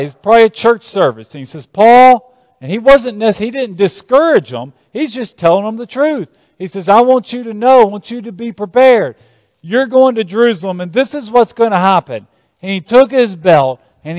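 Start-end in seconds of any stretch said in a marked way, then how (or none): 1.6-2.3 calling out. Acted. Preacher voicing prophet Agabus calling Paul. 6.9-12.3 prophet's warning. Acted. Preacher voicing prophet's warning to Paul.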